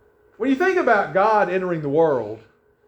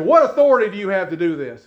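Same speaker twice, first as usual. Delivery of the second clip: raised, louder challenge; indignant challenge; 4 semitones higher, 6 dB louder than usual. Acted. They question Jesus at the temple, indignant challenge. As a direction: confront him, demanding an answer.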